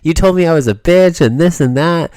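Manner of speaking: high, loud whiny accusation; hammed-up furious girlfriend yelling; shrill mock tirade at her partner for a dream; mock angry rant. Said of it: "You were just like".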